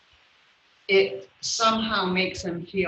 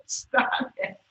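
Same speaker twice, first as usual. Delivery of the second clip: laughing protest. Real, not acted. Laughing off friends' teasing.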